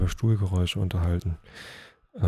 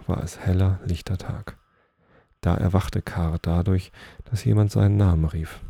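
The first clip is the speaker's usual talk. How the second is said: measured read-aloud storytelling voice; story narration; 5 dB louder than usual. A narrator's reading. Reading Nils Holgersson to listeners, story narration. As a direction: read the tale out clearly, phrase by phrase.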